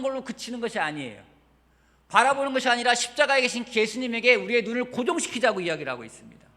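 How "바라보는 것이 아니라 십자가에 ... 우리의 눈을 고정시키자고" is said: higher and louder urgent exhortation; rally the congregation to fix their eyes; full-force preaching. Acted. Pastor urging the congregation, high loud preaching.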